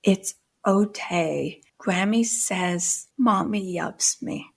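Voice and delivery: put-on slow, soft little-girl reassurance; soft child comforting herself. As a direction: say it gently to comfort yourself. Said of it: "she said".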